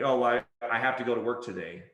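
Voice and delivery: low, reluctant complaint; mildly weighed down by duty; uninspired obligation. Acted. Worker voicing forceful language, uninspired. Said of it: "it's just like, "Ugh".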